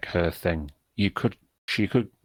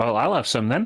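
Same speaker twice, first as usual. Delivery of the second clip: put-on small gnome voice; 5 semitones higher, 4 dB louder than usual. In a game scene, Joxy pipes up behind another character, Joxy's little gnomish voice. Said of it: "a little gnomish voice tweaks up behind you".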